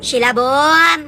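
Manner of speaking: slow, loud drawn-out call of a name. Acted. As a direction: call her from outside the door. Neighbor calling out at the door.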